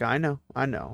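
soft, hushed soothing; calm her like a gentle mother; motherly comfort. Retold or imitated. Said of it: "that kind of motherliness".

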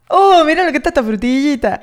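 intento risueño de acento porteño; acento de Buenos Aires imitado. Retold or imitated. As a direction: copia el deje de Buenos Aires riendo. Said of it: "eso de Buenos Aires tiene que decir". (imitación porteña ligera)

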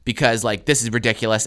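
emphatic retold telling-off; lecturing teacher. Teacher warning a student about disrupting class, emphatic. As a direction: reel off the warning as a fed-up teacher. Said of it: "she just starts going in on me".

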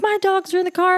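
high, loud frantic wail; freaking out. Retold or imitated. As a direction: re-enact hysterical yelling at the driver. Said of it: "I was freaking out".

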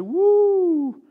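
high excited "woo" from a mock admirer; mock wowed passerby admiring a building; impressed passerby. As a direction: gush over the building like a dazzled onlooker. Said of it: "everybody can drive by and say".

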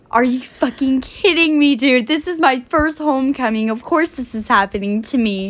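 retelling a loud homecoming rant; exasperated retort. Retold or imitated. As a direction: vent at the guy in mock outrage. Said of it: "I'm like".

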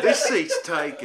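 put-on southern accent. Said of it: "weird southern accent".

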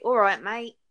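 a lightly voiced casual English accent greeting; mild English accent, friendly mate greeting. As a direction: say it like an easygoing English lad. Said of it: "It's more like".

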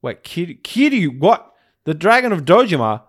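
rising panicked shout; panicked shock. Retold or imitated. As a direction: realise in horror, voice climbing. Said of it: "he's like".

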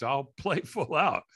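slow, laughing "play full out" with dry irony; wry promise. Retold or imitated. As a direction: say it like of course, after paying that much. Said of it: "I just spent seven hundred bucks".

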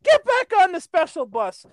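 mock imitation of Ryan's jab; mocking taunt. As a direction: sneer it like the friend did. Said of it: "it was like this".

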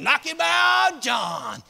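drawn-out hollered cheer; hollering. Retold or imitated. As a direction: call it up the tree to urge him on. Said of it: "They started hollering".

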